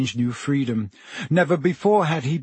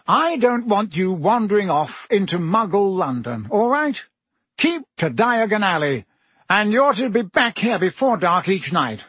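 jovial Minister voice; 6 semitones higher than usual. A narrator's reading. Fudge voiced by narrator.

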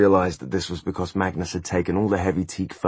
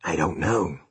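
petulant. Acted. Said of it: "said the demon petulantly".

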